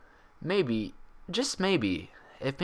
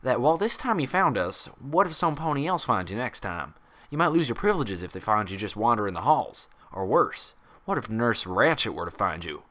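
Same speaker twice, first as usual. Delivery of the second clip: condescending doctor tone. Acted. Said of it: "official condescending doctor tone".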